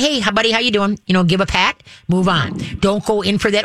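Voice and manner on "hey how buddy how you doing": nonchalant. Shown as a demonstration. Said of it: "have the person be nonchalant".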